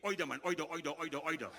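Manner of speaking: loud Bajan "either" as OY-der; Bajan accent. Retold or imitated. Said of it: "Bajans feel they have the best accent".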